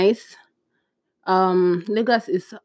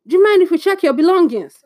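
much higher, louder disbelief; incredulous echo; 9 semitones higher, 6 dB louder than usual. Retold or imitated. Passenger echoing the officer in disbelief, incredulous. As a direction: repeat it as if it's absurd.

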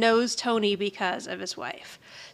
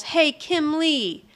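slow, drawn-out mock holler; imitating someone yelling across a bar; retold yell; slower than usual. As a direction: call out a food order, stretched out. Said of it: "and she yells".

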